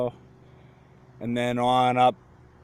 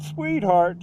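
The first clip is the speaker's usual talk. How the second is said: Southern drawl, pitched a little higher; southern echo; 6 semitones higher than usual. Retold or imitated. Woman echoes his word, Southern accent. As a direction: echo it back in a Southern lilt. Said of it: "she said this in this southern".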